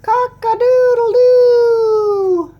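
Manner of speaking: high, loud, slow rooster crow. Acted. Teacher crowing for the kids at their turn, loud and high. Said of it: "Your turn".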